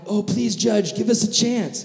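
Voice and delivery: high-pitched begging to the judge; acted desperate plea; pleading. Condemned crowd begs the judge.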